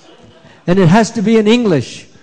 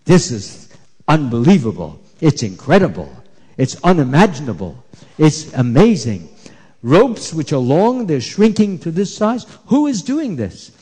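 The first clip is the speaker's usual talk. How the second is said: mother's amazement; 3 semitones lower than usual. Acted. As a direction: marvel at the shrinking ropes, slowing on the first words. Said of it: "And she was wondering".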